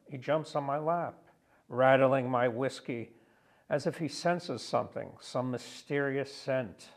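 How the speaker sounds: measured poem recital, phrase by phrase; deliberate poetic delivery with weighted key words; poetry reading. Acted. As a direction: read your poem aloud to an audience, pausing between lines. Reads own poem aloud.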